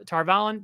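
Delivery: Tar Valon as "Tar VAL-un"; audiobook pronunciation. Shown as a demonstration. Insisting on the decades-old audiobook way, plain-paced pronunciation. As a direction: stress VAL, brief unstressed end on "Valon". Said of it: "that's how it's been pronounced for decades".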